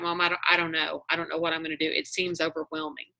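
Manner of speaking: low, soft retold admission; quietly overwhelmed. Daughter admitting to mom she has no plan, quietly overwhelmed.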